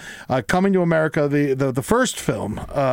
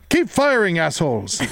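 officer order; 4 semitones higher than usual. Retold or imitated.

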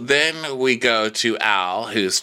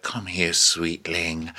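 softer, lower coaxing imitation; lightly voiced queen turning sweet; put-on sweetness; 3 semitones lower, 4 dB quieter, much slower than usual. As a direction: coax gently, acting sweet. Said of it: "she just decides to be sweet".

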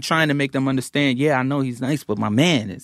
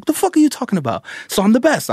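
incredulous rapper; 11 semitones higher, faster than usual. Retold or imitated. The rapper outraged, retold.

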